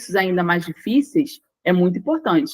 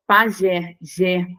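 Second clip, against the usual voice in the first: "Pajé" stressed on jé, then "jé" alone; "Pajé, jé", final syllable isolated; stress on last syllable; much slower than usual. Shown as a demonstration. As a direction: lean on the jé of "Pajé", then echo it. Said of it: "última sílaba acentuada".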